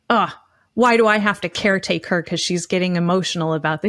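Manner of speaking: mock exasperated grumble; lightly acted huffy complaint. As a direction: imitate a put-upon partner with a huffed "ugh". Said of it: "he's not just all huffy".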